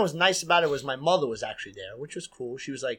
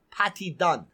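put-on Caribbean accent. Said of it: "like my Caribbean friends like to say".

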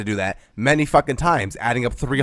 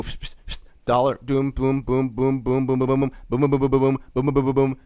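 counting sounds; 3 semitones higher than usual. Shown as a demonstration. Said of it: "you use your fucking fingers, and you go".

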